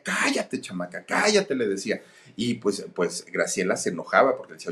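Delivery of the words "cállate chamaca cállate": hushing angrily. Retold or imitated. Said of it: "la callaba a la niña".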